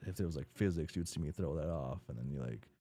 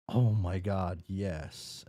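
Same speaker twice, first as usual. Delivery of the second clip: louder, gushing mock excitement; excited girl; 4 dB louder, much slower than usual. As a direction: gush as the thrilled girl. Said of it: "then she's like".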